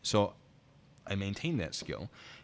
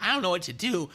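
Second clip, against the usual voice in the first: high, louder helpless wail; mock helplessness; 11 semitones higher, 6 dB louder than usual. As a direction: imitate a helpless homeowner, pitched way up. Acting out helpless homeowner.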